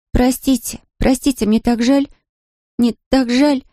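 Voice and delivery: put-on high young girl repeating her apology; a child begging forgiveness over and over; girl's voice, guilty and pleading. A narrator's reading. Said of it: "снова и снова повторяла девочка".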